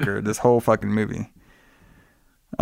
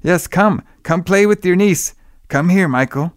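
mad doctor; 3 semitones higher than usual. Retold or imitated.

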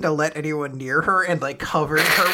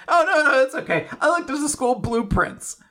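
flustered Fuko; 10 semitones higher than usual. Retold or imitated. Fuko declining Chikara's help.

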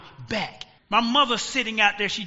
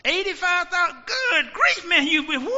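amazed friend; 6 semitones higher, 4 dB quieter than usual. Acted. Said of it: "And the friend said".

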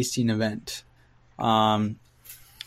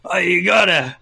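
put-on pushy drunk woman; 4 semitones higher, 3 dB louder than usual. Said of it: "says to me, like".

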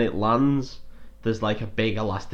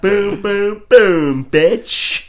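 excited shouting; 11 semitones higher, 10 dB louder, much slower than usual. Real, not acted. Cheering the jet kill.

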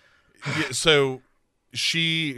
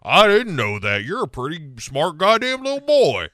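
gruff dad; 3 semitones higher, 4 dB louder than usual. Retold or imitated. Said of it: "And he's like".

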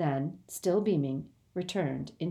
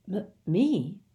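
stammered; 3 semitones higher than usual. Acted. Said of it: "stammered Harry".

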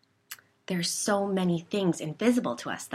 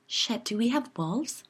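alarmed; 6 semitones higher than usual. A narrator's reading.

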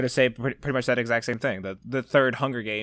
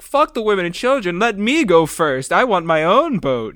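mock selfish yell; 6 semitones higher, 8 dB louder than usual. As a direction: ham up a selfish coward. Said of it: "I'm gonna be like".

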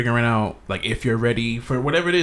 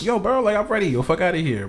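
hyped bro voice; 7 semitones higher than usual. Retold or imitated. Mock overeager bro quote.

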